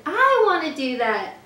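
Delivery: storybook cub's excited shout; excited cry. A narrator's reading. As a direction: cry out like a kid wanting a turn. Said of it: "The cubs all cried".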